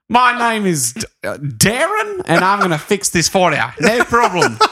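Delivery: badly faked New Zealand accent; attempted New Zealand accent. Host playing the pushy suitor to Kaya, attempted New Zealand accent. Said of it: "New Zealand accent".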